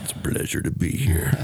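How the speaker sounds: voice dropped way down into deep register. Trying out a standard response line, in a really low, deep voice. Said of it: "In a really low, deep voice".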